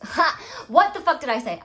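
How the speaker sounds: bursting into real laughter; laughing. Real, not acted. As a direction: laugh out loud while asking it. Laughs at her own swearing.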